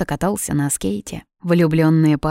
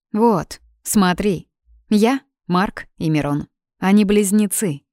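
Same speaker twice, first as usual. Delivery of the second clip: calm explanation; 3 semitones higher than usual. Acted. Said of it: "спокойно пояснила ей".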